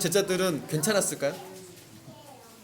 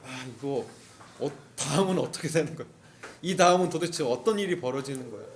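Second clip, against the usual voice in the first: worried murmur; 5 semitones lower, 3 dB quieter than usual. Retold or imitated. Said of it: "마음이 다운돼요".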